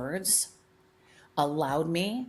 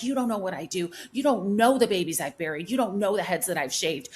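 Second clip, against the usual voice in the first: retold rant; 3 semitones higher, 4 dB louder than usual. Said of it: "yelling at this guy".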